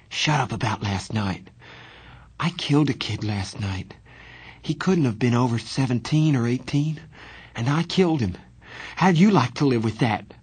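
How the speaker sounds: rising toward a tearful, strained outburst; crying. Acted. Johnny confessing the killing to his friend, near tears. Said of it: "He was crying".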